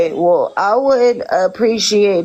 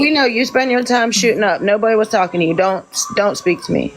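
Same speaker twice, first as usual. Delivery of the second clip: slurred speech. Real, not acted. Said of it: "Just like how you're slurring your words".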